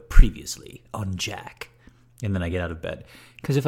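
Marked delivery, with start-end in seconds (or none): 0.1-1.7 slow, loud announcer voice; TV recap announcer. Retold or imitated. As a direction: boom it out like a show recap. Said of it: "I go".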